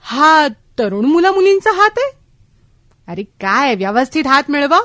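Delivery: lightly voiced bossy grandmother; feisty old lady. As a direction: imitate a spirited granny taking someone to task. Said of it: "तर त्या म्हणाल्या की".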